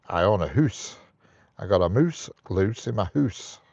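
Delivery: light Scottish vowels, oo for ou; imitating a Scottish friend's hoose and moose; mock Scottish accent. Imitating a Scottish friend, light mock Scottish accent. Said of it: "Whereas Seng would say".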